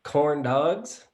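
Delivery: put-on Southern Mississippi accent. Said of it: "I'll do my best".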